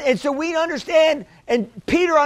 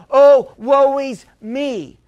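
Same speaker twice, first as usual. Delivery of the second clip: mock self-pity; 4 dB louder, slower than usual. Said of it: "looking at the circumstances and saying".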